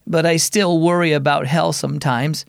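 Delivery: lightly voiced girl, near the narrator's own pitch; a hint of a worried girl; narrated girl. Storyteller reads the daughter's line, lightly voiced. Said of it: "Raylan said slowly".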